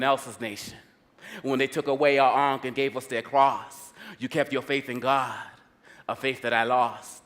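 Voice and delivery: measured poetic recitation in short phrases; spoken-word tribute. Acted. Poet pays tribute to the African woman, spoken-word recitation.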